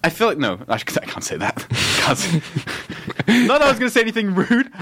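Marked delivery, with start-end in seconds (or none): 3.4-4.7 high-pitched defensive protest; squeaky, defensive denial; flustered backtracking. Real, not acted. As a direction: hurry to explain, pitched right up. Flustered backtracking after laughing.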